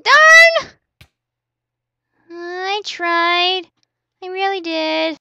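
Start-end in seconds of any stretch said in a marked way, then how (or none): 0.0-0.7 high, loud darn; annoyed outburst; frustrated cry. Real, not acted. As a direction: snap it.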